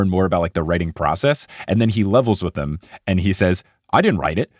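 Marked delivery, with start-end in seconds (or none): 3.9-4.5 lightly attempted New Zealand accent; Steven Adams. Podcaster quoting a player's blunt ghostwriter admission, light New Zealand accent. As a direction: quote it with a hint of Kiwi accent. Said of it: "here's Steven Adams saying that quote".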